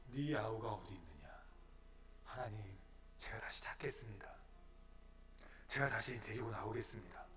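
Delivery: soft, low, near-whispered reply; hushed prayer. Acted. Believer answering God's call in a hushed prayer. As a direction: answer God quietly and humbly.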